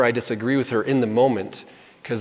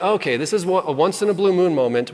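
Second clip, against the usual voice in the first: high, lightly bright mock agreement; voicing her going along with it; wife joining the water fight, voiced high and playful; 6 semitones higher than usual. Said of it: "She's like".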